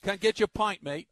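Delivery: rough attempt at an Australian accent. Shown as a demonstration. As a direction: have a go at matey Australian. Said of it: "That's my Australian".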